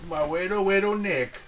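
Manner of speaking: lightly put-on Asian accent dad; Chinese restaurant accent. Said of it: "Why do you sound like the guy at the Chinese restaurant?".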